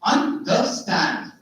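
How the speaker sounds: UNDERSTAND slowed into syllables, landing on STAND; anapest example. Shown as a demonstration. Teacher giving an anapest example, stress on STAND. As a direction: stretch out UNDERSTAND beat by beat. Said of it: "unstressed, unstressed, stressed".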